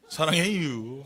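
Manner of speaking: Chungcheong drawl, last syllable stretched; Chungcheong dialect. Shown as a demonstration. Preacher tries the missing region's version, Chungcheong dialect. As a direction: let it trail out in Chungcheong dialect. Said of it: "충청도는 뭐라고 그래요".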